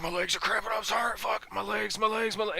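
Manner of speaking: very high, strained mimicked wail; mock agonized whining. Retelling a worn-out soldier complaining to his sergeant, mock agonized whining. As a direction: whine in a high voice like a cramping soldier.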